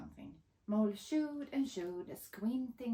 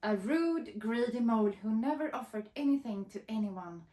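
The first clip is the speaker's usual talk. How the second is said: growled; 2 semitones higher, 6 dB louder than usual. Acted. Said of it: "growled Fox".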